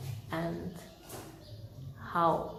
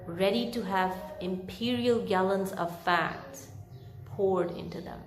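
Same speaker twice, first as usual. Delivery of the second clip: story narration. A narrator's reading. Reads Dickens chapter aloud.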